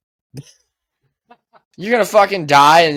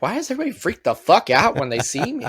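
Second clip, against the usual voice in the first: confused Lincoln actor; 4 semitones higher, faster than usual. Retold or imitated. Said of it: "poor fucking Lincoln actor that's like".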